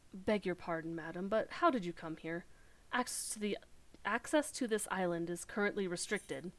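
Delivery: put-on a light West Country accent for a polite guard; a mild English West Country lilt. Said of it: "Very western countryside accent".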